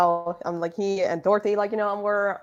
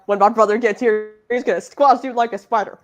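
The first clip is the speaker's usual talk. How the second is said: put-on light Texan accent, louder; 5 dB louder than usual. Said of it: "In his Texan accent".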